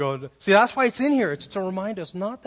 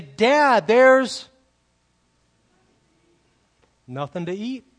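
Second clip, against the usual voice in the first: put-on whiny kid; 6 semitones higher, 11 dB louder, slower than usual. Kid complaining to dad.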